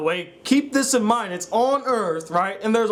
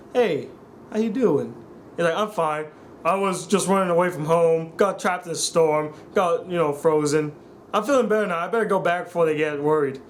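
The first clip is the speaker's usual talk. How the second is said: mildly mock a wooden, lifeless delivery; lower-pitched imitation of bad line reading; poor acting; 4 semitones lower than usual. Reviewer mimics the excruciating exchange with Katara, poor acting. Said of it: "poor acting, such poor delivery".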